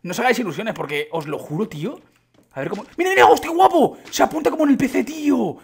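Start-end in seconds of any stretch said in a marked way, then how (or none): 3.0-5.6 high, loud thrilled exclamation; excited outburst. Real, not acted. Gamer thrilled by the controls, excited high shout. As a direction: blurt it out, thrilled by the game. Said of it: "esto sí que me ha emocionado".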